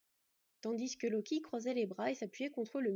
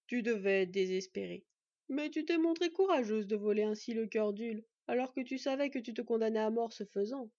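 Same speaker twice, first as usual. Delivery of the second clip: louder but kind elder; gentle; 5 dB louder than usual. Acted. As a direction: praise her courage tenderly. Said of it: "reprit gentiment Odin".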